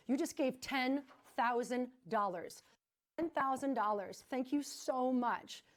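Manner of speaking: thrilled live-TV thanks to donors; excited thanks. Real, not acted. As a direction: savour each word of thanks, overwhelmed. Thanking for a huge donation.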